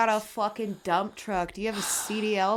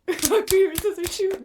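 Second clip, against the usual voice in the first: yelled game call; loud excited shout; 10 semitones higher, 6 dB louder than usual. Real, not acted. Shouted rock paper scissors game.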